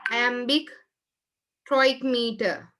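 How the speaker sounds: slow, spaced dictation; dictating slowly. Shown as a demonstration. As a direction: spell it out slowly for note-taking. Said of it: "Write down here".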